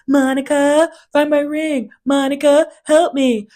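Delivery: high, loud mock panic; imitating Lisa freaking out. Lisa losing her ring, a high mock panic. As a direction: call out for help in a mock panic. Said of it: "you can hear her freaking out".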